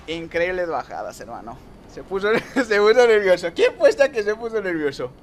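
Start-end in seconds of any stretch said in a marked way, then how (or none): 1.9-5.1 talking through laughter, voice lifted; amused, laugh-broken jeer; laughing mockery. Real, not acted. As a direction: crack up while teasing a rival. Laughs at rival getting nervous.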